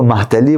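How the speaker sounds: Muhammad Ali contracted to "مہتلی"; mangled name. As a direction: say "مہتلی" as one merged word. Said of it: "ناموں کو خراب کر کے". (بگاڑ کر "مہتلی")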